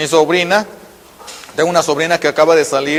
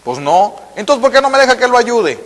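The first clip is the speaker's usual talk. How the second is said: a higher, firmer nurse challenging him; 6 semitones higher than usual. Retold or imitated. Niece scolding the angry injured man, firm and raised. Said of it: "le dijo".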